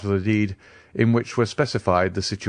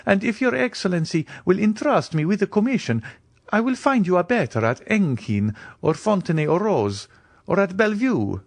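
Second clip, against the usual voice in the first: high, eager steward; eager cry; 10 semitones higher than usual. A narrator's reading. Bertuccio eagerly urging the Count, high and pressing. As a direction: rush to change his master's mind. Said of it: "cried Bertuccio, uh, eagerly".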